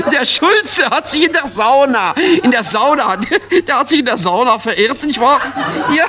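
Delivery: can't stop laughing mid-joke; comic laughing through his own punchline; laughing through words. Real, not acted. Keeps laughing while telling.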